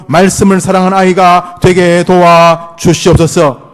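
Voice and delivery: earnest pastor's prayer; spoken prayer. Acted. Pastor praying for the children's faith, earnest prayer. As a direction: pray it earnestly over the children.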